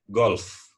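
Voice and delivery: Golf said as one syllable, golf; plain English Golf set against Golop; correct Golf. Shown as a demonstration. Teacher corrects the Sumatran Golop to Golf. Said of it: "Golop, golop".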